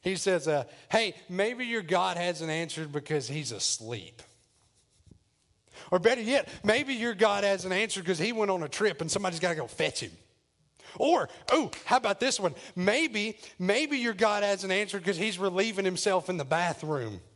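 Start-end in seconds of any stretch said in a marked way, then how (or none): 0.9-4.2 slow, teasing taunt; drawn-out mock helpfulness. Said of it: "he starts mocking them". 5.9-17.2 gleeful taunting with raised openings; mocking. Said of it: "he starts mocking them".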